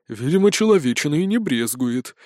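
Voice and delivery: understated apprehension; a touch of unease; wary. Acted. Spirt eyes the remains, mildly apprehensive. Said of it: "произнёс Спирт с опаской".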